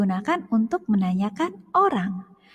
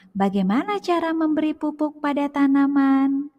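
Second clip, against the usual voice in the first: "Bagaimana cara memberi pupuk pada tanaman?" read higher, stress on "cara", ending as a question; question intonation; 5 semitones higher than usual. Shown as a demonstration. Teacher showing children how a question sounds, stress on "cara". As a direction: ask it as a real question, leaning on "cara". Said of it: "apakah intonasinya berbeda? Iya".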